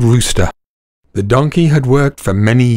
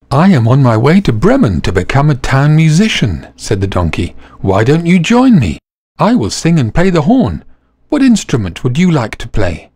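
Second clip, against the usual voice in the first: put-on cheerful old donkey; 3 semitones higher than usual. Donkey inviting the dog to Bremen, eager. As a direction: coax the dog to join.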